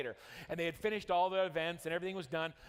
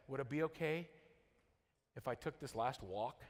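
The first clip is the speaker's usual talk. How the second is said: hushed plea; 6 semitones lower, 6 dB quieter than usual. Retold or imitated. Boy asking for last walk.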